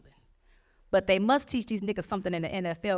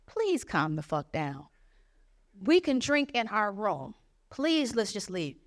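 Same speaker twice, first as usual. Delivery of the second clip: pleading; slower than usual. Retold or imitated. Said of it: "So I say to him again".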